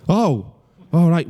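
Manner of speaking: slow, drawn-out acted letdown; mildly disappointed. Girlfriend hears he is not in town, mildly disappointed. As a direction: stretch out a mildly disappointed reaction. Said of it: "so she sounds disappointed".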